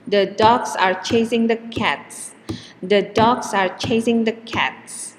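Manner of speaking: The, are and the rushed through between dogs, chasing and cats; dogs, chasing and cats stressed, all else reduced; keep the beat. Shown as a demonstration. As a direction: cram the little words into the beat. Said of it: "the time between stressed words is always the same".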